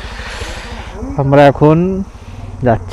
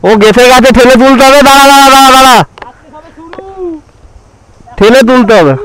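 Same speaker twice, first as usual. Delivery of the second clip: pushing something heavy; 9 semitones higher, faster than usual. Real, not acted. Lifting bike over boulder.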